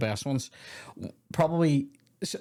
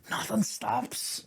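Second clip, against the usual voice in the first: high, very slow quote; soft, stretched-out impression; put-on warden voice; 9 semitones higher, 5 dB quieter, much slower than usual. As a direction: draw it out in a raised character voice. Same quote repeated in put-on voice.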